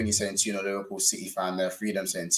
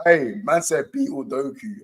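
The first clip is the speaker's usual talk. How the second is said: laughing through pain; 4 semitones higher, 3 dB louder than usual. Real, not acted. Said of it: "stop making me laugh".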